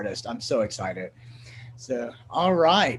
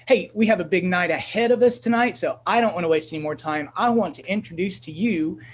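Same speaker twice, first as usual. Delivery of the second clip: slightly raised, energetic emcee voice; upbeat host introduction; 4 semitones higher, 4 dB louder than usual. Real, not acted. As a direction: build up to the name, then stretch it out loudly.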